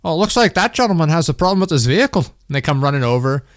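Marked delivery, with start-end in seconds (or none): 0.0-2.2 higher-pitched, hammed-up attempt at an Amish accent; failed Amish accent. Man imagines Amish folk spotting a broken-down car, mock Amish accent. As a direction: put on a bad Amish accent that drifts toward Irish. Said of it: "I can't do an Amish accent".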